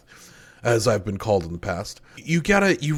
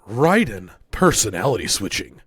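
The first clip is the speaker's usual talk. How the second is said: N=Solid Snake/character. Pretend. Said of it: "exactly what you sound like".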